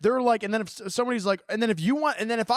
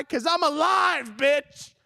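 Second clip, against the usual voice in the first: passionate shout; 5 semitones higher, slower than usual. Real, not acted. Passionate rant.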